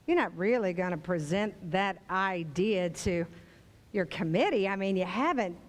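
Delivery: a touch of the condescending diva; Betty Davis. Retold or imitated. Critic voice belittles the listener's idea, lightly mocking. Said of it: "when Betty says".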